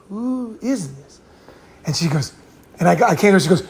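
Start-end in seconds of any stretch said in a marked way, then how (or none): 0.1-1.2 drawn-out, hushed inner thought; puzzled thinking. Retold or imitated. Man wondering to himself about a girl he didn't recognize, hushed and puzzled. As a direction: think it aloud softly and very slowly. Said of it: "I'm like thinking".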